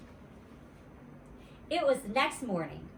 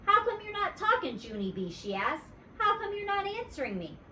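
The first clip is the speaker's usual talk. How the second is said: pestering; 12 semitones higher than usual. Acted. Pestering friend.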